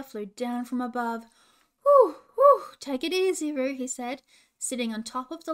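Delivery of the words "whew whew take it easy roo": very high, loud hooting owl. Acted. Hooter the owl calming trapped Roo, high hooting. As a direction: hoot it out like a fussy owl.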